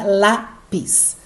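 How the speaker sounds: "lápis" split, weight on the first syllable lá; slow teacher's "lápis" in two beats, strong lá; stressed syllable demo. Shown as a demonstration. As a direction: break "lápis" into lá and pis, leaning on lá. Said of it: "Lá é a sílaba forte".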